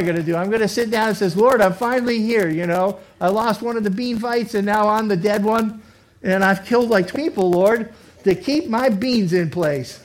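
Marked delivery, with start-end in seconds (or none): 1.3-10.0 mock hoarder's prayer.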